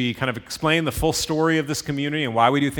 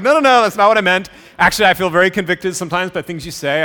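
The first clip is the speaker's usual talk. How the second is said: retold eager protest; 5 semitones higher, 9 dB louder than usual. Class member protests to Steve.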